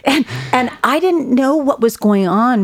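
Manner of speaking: high, laughing through the words. Real, not acted. Guest laughing to host about her past anger, laughing. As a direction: laugh it off in embarrassment.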